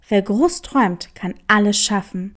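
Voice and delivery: lightly voiced young hare, earnest; a small hare stating his dream with conviction; hare answering. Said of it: "entgegnete der Hase". (leicht gesprochener junger Hase, ernsthaft)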